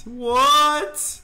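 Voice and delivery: sharp high rising what; startled what. Real, not acted. Gamer startled by sudden game event, surprised what. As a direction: caught off guard, shoot up high.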